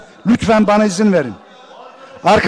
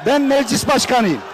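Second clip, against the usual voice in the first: shouted assertion; 3 semitones higher, 3 dB quieter than usual. Real, not acted. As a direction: shout BEN, raised. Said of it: "shout heard". (yüksek sesle bağırarak "Ben meclis başkanıyım")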